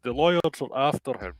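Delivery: put-on putting on a regional British accent. Gossiping local spreading word of a bastard son, regional accent. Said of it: "Good accent".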